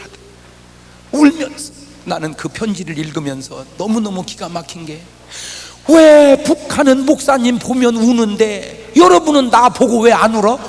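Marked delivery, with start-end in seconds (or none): 5.9-10.6 loud, high scolding from the pulpit; preaching rebuke. Acted. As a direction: shout the challenge at the pews. Rebukes the congregation.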